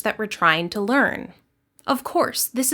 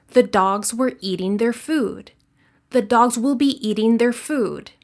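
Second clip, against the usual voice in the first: dogs, eat, food on even beats, small words squeezed; stress rhythm demo. Shown as a demonstration. Teacher shows same timing with added words. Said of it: "we keep the same timing".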